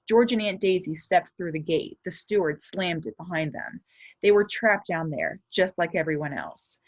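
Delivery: lively chapter-book reading to a class; story read aloud. Acted. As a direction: read it to the kids with suspense. Reads the novel aloud.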